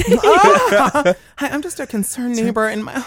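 high put-on Karen voice; concerned-neighbor phone voice. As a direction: do a Karen phoning in a complaint. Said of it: "the voice you were doing on the phone".

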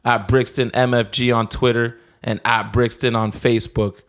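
upbeat sponsor read, selling it. Acted. Host reads a clothing ad to listeners, upbeat sales voice. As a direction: pitch the gear to the listeners.

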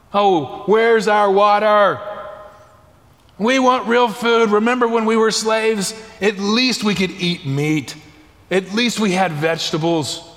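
mildly mocking imitation of grumbling; complaining. Preacher voicing the Israelites grumbling in the wilderness, mildly complaining. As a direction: whine it lightly, like a discontented crowd. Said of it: "and they complained".

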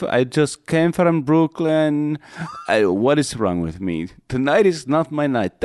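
high-pitched distraught Romanian cab driver impression; cabbie near breakdown. Cab driver lamenting a Brooklyn fare, mock despair. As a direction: act out a driver beating himself up. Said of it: "a guy on the verge of a breakdown".

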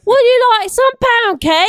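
high put-on mom voice; impression of Marty's mom. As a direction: offer it as a hammed-up, high-pitched mom. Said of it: "an impression of your mom cooking".

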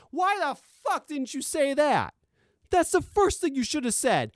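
high-pitched indignant rant; exasperated outburst. Real, not acted. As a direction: throw the question at them in disbelief.

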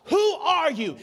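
booming question; screaming from heaven. Retold or imitated. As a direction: cry it out from the heavens. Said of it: "He is screaming from the heavens".

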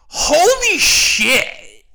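high, loud, long-drawn mock outburst; imitated yell. Imitating a laughing moviegoer after the credits, drawn-out yell. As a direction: yell it out slowly in astonishment, mimicking someone. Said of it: "she just yells out".

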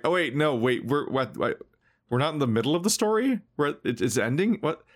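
rising, baffled disbelief climbing to a high final what; mock confusion. Player mocking a quest that ends abruptly, baffled surprise. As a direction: act out the player caught off guard.

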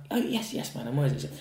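high, breathy-free overly polite lilt; mock polite waiter. Waiter answering a customer with hammed-up politeness. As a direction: play the eager, servile waiter. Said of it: "I'm like".

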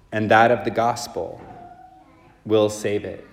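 measured, solemn proclamation from the ambo; formal liturgical reading voice; Gospel reading. Acted.

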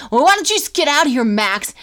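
put-on a touch of sulking kid, rushed; imitating Dustin. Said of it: "he's like".

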